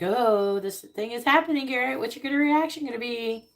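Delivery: a lightly voiced cosmic examiner; the universe talking. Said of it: "they're like".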